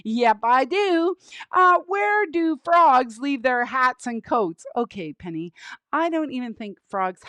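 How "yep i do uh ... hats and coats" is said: lightly voiced puppet comic; puppet joke setup. Penny offers the host another joke, lightly voiced puppet. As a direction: pose a riddle as the puppet.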